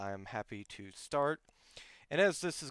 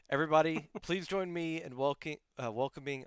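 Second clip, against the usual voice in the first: hoarse, voice giving out; losing voice; 3 semitones higher than usual. Real, not acted. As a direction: speak with a worn-out hoarse voice. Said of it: "I'm just completely losing my voice".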